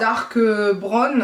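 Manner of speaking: English words in a French accent; accent anglais approximatif. Shown as a demonstration. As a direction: say it with a clumsy, self-mocked English accent. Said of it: "avec mon bel accent, euh, anglais". (accent anglais maladroit)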